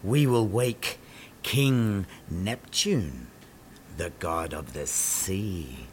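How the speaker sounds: soft, slow, otherworldly sea fairies; mystical nymphs. Acted. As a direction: speak like ancient spirits of the sea. Sea nymphs speak in chorus.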